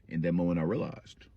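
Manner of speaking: normal talking voice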